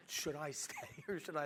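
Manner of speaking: hushed, uncertain retelling; hesitant self-talk. Retold or imitated. Young contractor left alone by angry client, hushed mock dread. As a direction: softly wonder whether to flee. Frightened young man weighing escape.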